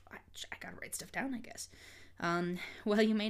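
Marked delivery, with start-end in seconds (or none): 0.1-1.7 whispered to herself; reading under breath. Shown as a demonstration. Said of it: "me reading it to myself".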